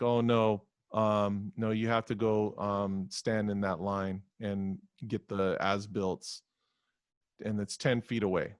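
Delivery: low, slow bureaucrat drone; droning clerk voice. Retold or imitated. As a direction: drag it out like a bored clerk.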